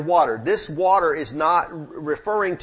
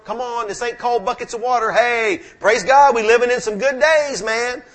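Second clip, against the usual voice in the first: joyful praise; 6 semitones higher, 5 dB louder than usual. Real, not acted. Preacher rejoicing to the congregation about modern comforts, loud and glad.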